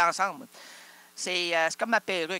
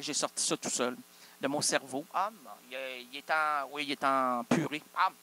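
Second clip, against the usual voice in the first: ordinary talk, nothing marked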